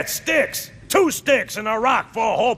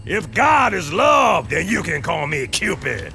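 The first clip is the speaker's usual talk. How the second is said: fiery speech. Acted. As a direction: preach it like a drill sergeant.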